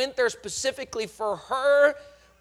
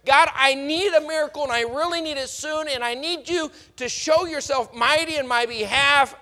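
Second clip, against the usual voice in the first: higher, urgent plea for a miracle; urgent prayer; 3 semitones higher, 4 dB louder than usual. Retold or imitated. Believer begs God for a quick miracle, urgent. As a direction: beg God to show himself now. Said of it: "you said".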